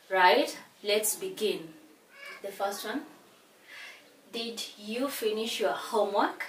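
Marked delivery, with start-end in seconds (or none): 4.3-6.4 yes-no question tune going up; rising intonation. Shown as a demonstration. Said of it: "the rising intonation".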